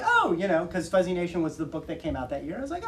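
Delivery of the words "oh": high, lifted "oh"; pleasantly startled; retold surprise. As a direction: perk up high at unexpected news. Retold surprise at getting email.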